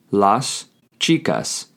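slow, with a stretched final s in "chicas"; slow drawn-out repeat. Shown as a demonstration. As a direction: repeat "Las chicas" slowly, holding the last s. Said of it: "you would say".

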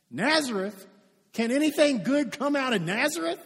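mildly scoffing disbelief, question rising high at the end; incredulous. Acted. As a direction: question it as if you can't believe it. Acting out the skeptical friend's reply.

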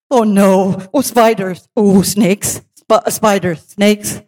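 acted-out anxious indecision; torn dismay. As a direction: weigh two horrors in halting moans. Weighing two horrors aloud.

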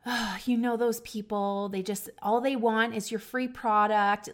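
mock exasperated complaint, opening on a sigh; lightly acted fed-up griping; retold frustration. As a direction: grumble as if replaying your old frustration. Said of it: "I remember being so frustrated".

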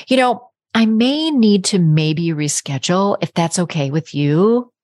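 hedging, apologetic and unsure; timid, self-undermining request; apologetic and mousy. Shown as a demonstration. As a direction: sound sorry for even asking. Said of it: "I sound very apologetic and not so confident and ... mousy".

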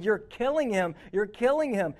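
half-shouted retelling of panicked screams; retold yelling. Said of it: "looking at her screaming and yelling".

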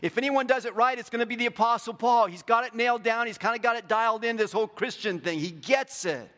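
high, loud mock admiration of Paul; admiring Christians. Preacher voicing Christians praising Paul, loud and high. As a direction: gush about Paul like awed believers. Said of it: "we all look at him and go".

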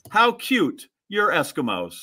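lightly mimicked cutesy coo, high then falling; mock-sweet imitation of a doting lady. Sore storyteller repeats the lady's remark, mocking coo.

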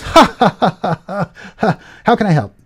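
high nervous laugh turning eager to help. Retold or imitated. Manager caving after the threat of being fired. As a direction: laugh nervously, then cave. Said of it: "And the manager goes".

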